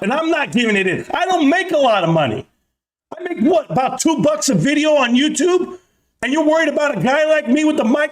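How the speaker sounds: ramp up into a furious rant; escalating comedy rant. Real, not acted. Rant escalating against Wall Street.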